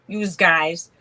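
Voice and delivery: broad New York "yous guys"; thick-ish New York twang; New York accent. Acted. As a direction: lay on a little Brooklyn accent. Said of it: "with my accent".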